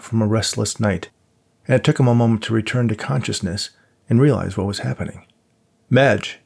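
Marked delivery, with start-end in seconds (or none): 5.9-6.4 stern command. Acted. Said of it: "he commanded sternly".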